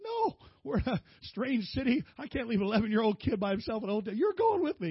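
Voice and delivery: a dad laying down the law; firm refusal. Retold or imitated. Father telling his son he can't stay alone, firm loud refusal.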